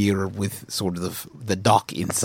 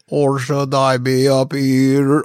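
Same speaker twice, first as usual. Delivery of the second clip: higher pitch; 6 semitones higher, 6 dB louder than usual. Shown as a demonstration. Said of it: "asks which pitch to sing".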